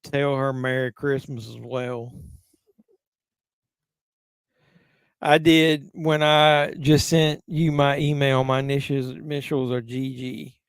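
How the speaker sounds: a hint of Doug, drawn out slowly; Doug impression. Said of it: "so I'll do my Doug impression".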